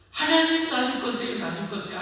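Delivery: high, loud anguished plea, fading; Jesus crying out. Retold or imitated. Jesus on the cross pleading to God, loud anguished cry. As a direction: cry out in mock agony, then trail off. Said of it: "하는데 어떻게 해요".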